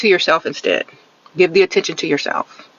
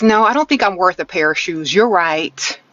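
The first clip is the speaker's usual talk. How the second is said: sarcastic. Shown as a demonstration. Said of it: "I get sarcastic".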